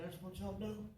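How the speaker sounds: put-on an old man crying and laughing at once; emotional granddad. Granddad tells the black couple he loves them, tearful then laughing loud.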